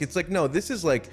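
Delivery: usual speaking voice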